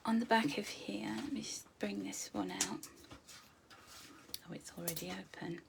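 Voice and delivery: breathy unvoiced aside; whisper. Real, not acted. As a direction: whisper it while fiddling with the binder. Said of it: "whispers while handling the binder".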